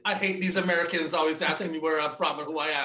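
put-on Jamaican accent, complaining; mock a bad Jamaican accent disguise; fake Jamaican accent. Disguised man complaining to the doorman, fake Jamaican accent. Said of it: "That Jamaican accent that got him in the club".

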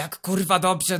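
seething, slow and heavy; father seething at the worried guard; slow angry retort. Acted. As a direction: spit out Jak kurwa dobrze slowly. Father furious after crash.

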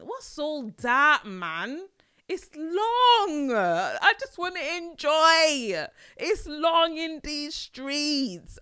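hammed-up crying, high and loud; mock wailing lament. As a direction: wail it like fake tears, slow.

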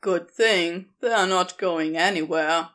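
casual, a touch sly; lightly voiced Crowley. Crowley, wicked gleam.

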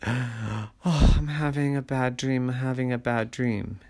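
acted childish fright; frightened child. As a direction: whimper lightly like a kid after a nightmare. Child claims bad dream.

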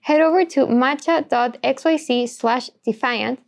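upbeat sponsor read voice. Acted. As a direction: read it like a podcast ad. Host reads sponsor ad.

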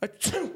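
imitated sneeze; sneezing. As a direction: reenact the sneeze. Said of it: "This is how it went".

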